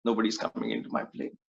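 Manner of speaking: sad lament. Retold or imitated.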